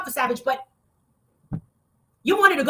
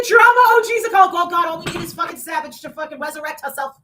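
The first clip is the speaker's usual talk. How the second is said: angry shout; 3 semitones higher, 6 dB louder than usual. Real, not acted. Shouting about the drama OGs.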